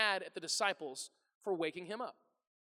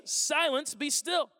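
loud, raised-pitch command; commanding rebuke; 5 semitones higher, 6 dB louder, much slower than usual. Acted. Jesus rebuking the wind and waves, loud and commanding. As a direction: order it firmly, like a rebuke. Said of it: "He does not rebuke the disciples".

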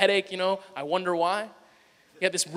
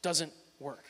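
lightly voiced stubborn child; 3 semitones lower, 6 dB quieter, slower than usual. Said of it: "He said".

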